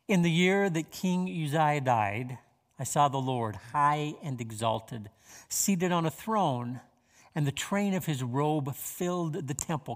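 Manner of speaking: slow, measured reading of the verses; scripture reading. Acted. Pastor reading Isaiah to the congregation, slow and measured. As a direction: let each phrase of scripture land. Reads Isaiah six aloud.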